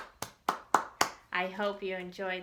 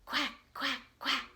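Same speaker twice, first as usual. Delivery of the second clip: light quacking duck noise; duck quacks; 3 semitones higher than usual. Acted. Teacher reading to kids, quacking like a duck. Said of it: "Hear its funny sound".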